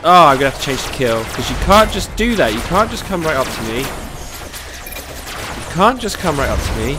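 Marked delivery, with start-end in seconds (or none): 3.8-7.0 drawn out very slowly, teasing sing-song; slow mocking taunt. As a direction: stretch every word to mock the enemy. Taunting enemy tank in game.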